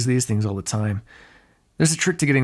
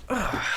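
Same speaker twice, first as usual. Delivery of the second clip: soft, high groan of annoyance; short fed-up groan; exasperated groan; 8 semitones higher, 5 dB quieter than usual. Acted. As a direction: let out a quiet, exasperated ugh. Exasperated at hunter.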